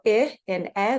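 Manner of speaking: isolated vowels, 'ih' then 'eh'; two different sounds. Shown as a demonstration. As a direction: contrast short 'ih' against open 'eh'. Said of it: "those are two different sounds".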